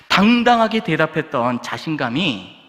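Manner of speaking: normal talking voice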